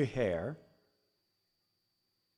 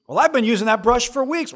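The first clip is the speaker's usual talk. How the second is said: put-on whiny kid; 8 semitones higher, 6 dB louder, faster than usual. Kids quarrel voiced.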